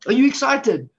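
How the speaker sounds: worked-up preacher firing up listeners; excited. Real, not acted. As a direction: rouse the crowd with real excitement. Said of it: "Man, am I excited".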